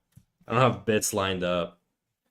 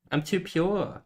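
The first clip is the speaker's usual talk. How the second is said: higher prim; 7 semitones higher, 4 dB quieter, slower than usual. Acted. Second take, higher.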